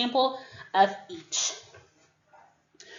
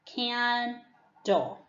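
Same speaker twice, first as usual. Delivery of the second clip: syllables slowly; 3 semitones higher than usual. Shown as a demonstration. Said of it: "I'm going to give you the syllable slowly".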